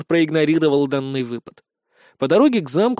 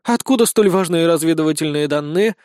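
mildly taken aback; a touch of sceptical wonder; surprised; 2 semitones higher, 4 dB louder than usual. Acted. Blonde questions where the intelligence came from, mildly surprised. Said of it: "удивилась Безос".

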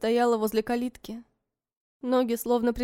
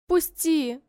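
louder, higher demand; firm cry; 5 semitones higher, 3 dB louder than usual. A narrator's reading. Vera demands Ivan release her, firm cry. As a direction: let go, said sharply. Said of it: "Повторять не пришлось".

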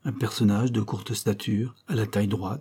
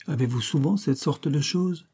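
nasal abrupt voice; 4 semitones higher than usual. Acted. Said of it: "nasale et abrupte".

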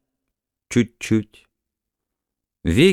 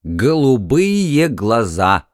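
slow, drawn-out incredulous exclaim; mocking exclamation; much slower than usual. Husband scoffs at wife's dream of blue eyes, slow incredulous exclaim. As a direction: stretch each word in disbelief. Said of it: "воскликнул мистер К".

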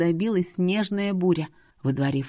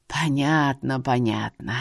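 put-on low, slow old man voice; lowered voice of a wise old man; old seer, knowing; 5 semitones lower, slower than usual. A narrator's reading. Seer tells her about her home, low knowing old man.

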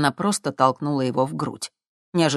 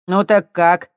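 louder, higher, with a cocky challenge; challenging; 3 semitones higher, 7 dB louder than usual. A narrator's reading. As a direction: dare her to say yes. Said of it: "с вызовом спросил парень". (с вызовом, громче)

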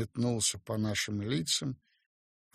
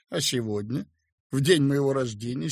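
ordinary delivery, nothing marked

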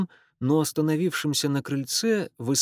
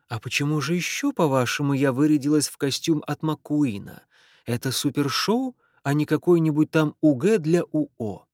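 put-on Irish accent. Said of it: "сильный ирландский акцент".

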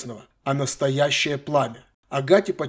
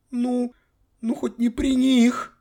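high, slow, near-tearful plea; pleading girl; 10 semitones higher, much slower than usual. Acted. Granddaughter begging her grandfather not in front of others.

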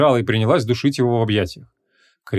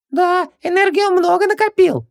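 high genie voice with mouth full; 3 dB louder than usual. A narrator's reading. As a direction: talk through a mouthful, slowly. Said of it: "с набитым ртом согласился Хубаксис".

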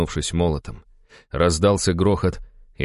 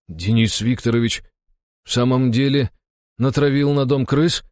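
higher, halting disbelief; stunned muttering; 8 semitones higher than usual. A narrator's reading. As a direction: falter through the question, dumbfounded. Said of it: "ошарашенно пробормотал давешний дружинник Кузьма". (ошарашенно, с запинками)

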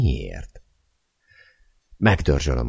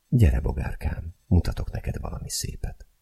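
put-on coaxing the child; 4 semitones higher, 4 dB quieter than usual. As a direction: lure the little one gently. Mother coaxing her little daughter.

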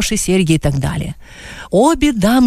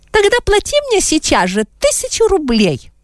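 higher, imperious demand; demanding lady; 12 semitones higher than usual. A narrator's reading. Mrs Einer demanding money from Adam, higher and imperious. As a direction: insist on your money now. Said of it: "потребовала госпожа Эйнер".

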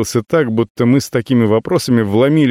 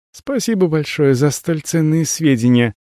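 kind; 5 semitones higher than usual. Acted. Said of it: "обдала его волной доброты Авелла".

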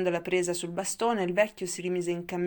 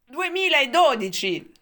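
much louder, higher, slow shrill cry; shrieking old man; 7 semitones higher, 10 dB louder, slower than usual. A narrator's reading. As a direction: shriek the year out in excitement. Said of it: "strillò". (strillo acuto e lento del vecchio)

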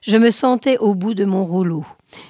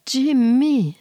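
lightly voiced hopeful girl calling higher; hopeful young woman; 5 semitones higher than usual. A narrator's reading. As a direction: call out his name with gentle hope. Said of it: "pleins d'espoir quand elle parla".

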